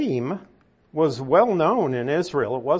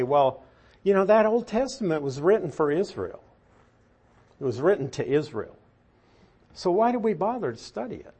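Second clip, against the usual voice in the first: fast, higher, dismissive "why bother"; imitating people who brush off the Old Testament; mock skeptic; 5 semitones higher, faster than usual. Quoting doubters to the class, mock dismissive. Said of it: "a lot of people now who say".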